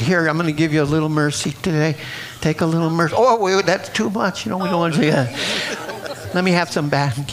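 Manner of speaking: laughing, mocking a stingy giver of mercy. Preacher mocks the church's stinginess with grace, laughing. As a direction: hand it out, then take it back with a chuckle.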